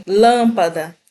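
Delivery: lâmpada with "am" as one nasal vowel; nasal first syllable in lâmpada; nasalized vowel. Shown as a demonstration. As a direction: say lâmpada with a single nasal ã, no separate m. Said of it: "como se eu estivesse escrevendo assim".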